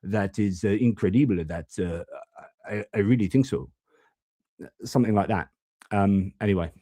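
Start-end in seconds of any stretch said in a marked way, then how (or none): 0.0-3.7 hesitant French-accented English, softening toward the end. Shown as a demonstration. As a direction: stress third syllables like a French speaker, in-cre-DEE-ble. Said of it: "do a French accent is to try and stress the third syllable".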